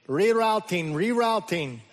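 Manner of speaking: a hint of a polite British navigation lady; British GPS voice. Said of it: "you may hear a British female voice saying".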